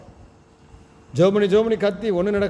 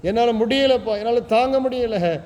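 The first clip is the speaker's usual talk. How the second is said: higher, pleading wail for help; lamenting cry; 4 semitones higher than usual. Acted. Preacher voicing drowning David crying to God, higher lament. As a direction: beg the Lord to pull you from the mud. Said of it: "பதினாலுல புலம்புற".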